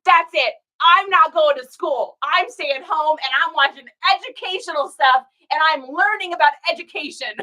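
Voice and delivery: voicing a skipping viewer, playful defiance; defiant kid. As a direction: play the proud truant. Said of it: "I'm like".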